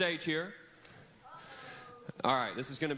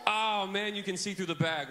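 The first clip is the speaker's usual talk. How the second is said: mock dismay; 6 semitones higher, 4 dB louder than usual. Real, not acted. Kids see through the bag.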